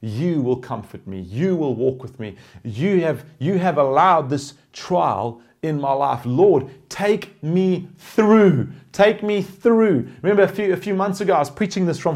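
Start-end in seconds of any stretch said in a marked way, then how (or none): 0.0-10.1 humble surrender. Pretend. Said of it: "falling on our face and saying".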